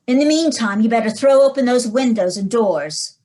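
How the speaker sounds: loud, firm instructions down the phone; loud urgent phone orders to a frightened caller. Acted. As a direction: bark out what to do before you arrive. Inspector gives orders over the phone.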